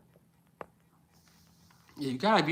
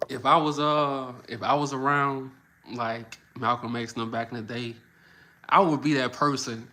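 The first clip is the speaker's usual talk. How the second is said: emphatic; 6 dB louder than usual. Real, not acted. Boasting of his role.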